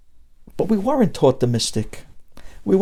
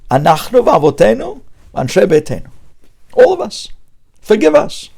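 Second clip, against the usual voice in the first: high, louder cry to God for forgiveness; pleading prayer; 6 semitones higher, 5 dB louder than usual. Pretend. Rabbi acting a worshipper begging Hashem, high pleading cry. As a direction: beg Hashem like a sinner at prayer.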